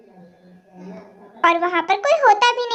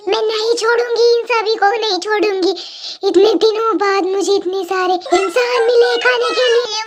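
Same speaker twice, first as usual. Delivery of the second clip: witch threat. Acted. Witch threatens to eat humans.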